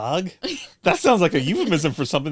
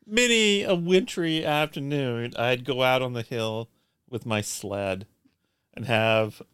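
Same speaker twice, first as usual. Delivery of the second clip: put-on nostalgic old gent. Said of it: "Charles Foster Kane all of a sudden".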